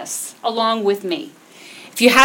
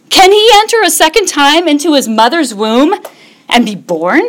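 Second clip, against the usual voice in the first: mock-baffled question, pitch climbing; playing Nicodemus as a puzzled older man; incredulous Nicodemus; 4 dB louder than usual. Preacher voicing Nicodemus's disbelief to the congregation. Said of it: "Nicodemus says to him".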